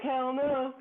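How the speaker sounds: high, emphatic hell no; scammed customer's mock outraged no; indignant refusal. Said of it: "I'm like".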